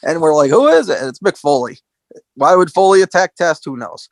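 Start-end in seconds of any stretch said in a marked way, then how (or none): 0.5-1.0 mock surprise. Fans wondering who it is.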